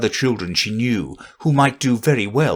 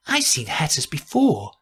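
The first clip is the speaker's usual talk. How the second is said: higher, lightly voiced Alice; Alice musing to herself; 5 semitones higher, 3 dB quieter than usual. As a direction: think aloud as Alice, pitched up. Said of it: "she said to herself".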